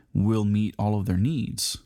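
slow, with a rising needs at the end; stress on needs. Shown as a demonstration. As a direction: stretch it out and lift needs. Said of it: "I emphasize that word".

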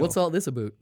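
lightly put-on Canadian accent. Puzzled Canadian asking about it, light Canadian accent. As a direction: say "about" as "aboot", Canadian style. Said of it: "give me the Canadian accent".

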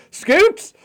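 high hyped promo shout; radio announcer. Retold or imitated. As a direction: belt it like a radio jingle. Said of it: "I just hear".

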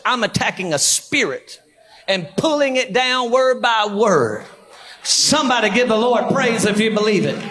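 deliberate, emphatic sermon delivery; preaching. Acted. Preacher attacking a spirit over the region, emphatic preaching. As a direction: declare it from the pulpit, phrase by phrase.

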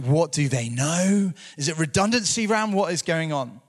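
half-acted worried junior fretting over a call; mildly hammed-up nervous questions; mock panic. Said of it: "I'd be freaking out and being like".

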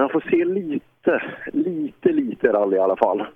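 "lite" repeated, the middle "lite" jumps far up in pitch; stress on lite. Shown as a demonstration. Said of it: "Med betoning på väldigt lite". (betoning på "lite", mittersta "lite" högt uppdraget)

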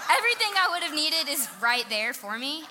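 amused, loud and lifted by laughter; laughing. Real, not acted. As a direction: laugh at your own blunder while talking. Laughing at her own mistake.

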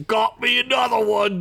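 high, cheeky goblin voice. Acted. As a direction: grin through it like a goblin. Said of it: "Spank said with a smile".

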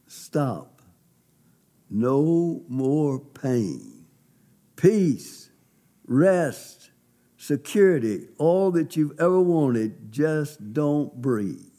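slow, measured pronouncement, each word set apart; lightly voiced otherworldly voice, drawn out with long pauses; beautiful voice. A spirit voice tells a dying man to let go, beautiful voice, lightly imitated. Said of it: "the most beautiful voice I've ever heard".

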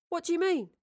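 high, puzzled question; baffled, voice lifted. Acted. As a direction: ask it in confusion. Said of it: "Thomas puzzled".

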